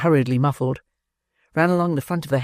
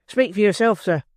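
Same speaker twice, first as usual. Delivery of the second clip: indignant; 6 semitones higher than usual. Acted. Giles indignant.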